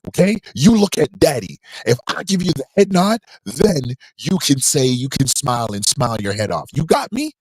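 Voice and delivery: put-on father lecturing baby son like a gangster boss; mock gangster boss. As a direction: lay down the rules like a kingpin. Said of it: "that was the exact scene I went for".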